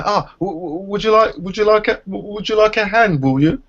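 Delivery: mocking the man who offers to carry the buggy; mocking a fawning man. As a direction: play the simpering helper, tripping over words. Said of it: "so the guy".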